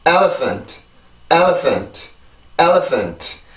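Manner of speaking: "elephant" in English rhythm, falling away after "el"; pronunciation drill. Shown as a demonstration. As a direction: model "elephant" with stress on the first syllable. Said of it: "이 단어는 이렇게 발음이 돼요".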